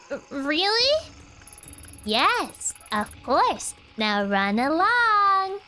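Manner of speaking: sweet but unsettling reassurance; creepy calm cultist. Acted. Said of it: "cultist-based nightmares".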